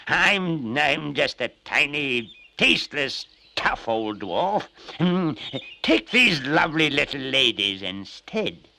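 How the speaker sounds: high, loud pleading dwarf voice; a tiny dwarf squealing for his life; frantic little dwarf begging not to be eaten. Acted.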